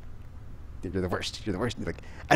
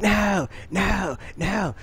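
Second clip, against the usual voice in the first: high despairing no; 10 semitones higher, much slower than usual. Retold or imitated. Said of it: "And it's like".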